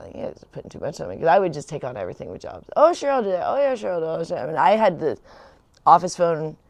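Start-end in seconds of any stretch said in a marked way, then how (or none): 2.8-4.4 high, lilting imitation of saying yes; breezily agree, higher at the start; eager agreeing. Worker taking on every job the bosses give, eager agreeing.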